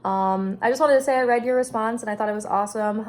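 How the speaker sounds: talking funny after wisdom teeth out; sore, swollen mouth after dental surgery. Real, not acted. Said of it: "Sorry if I'm talking funny".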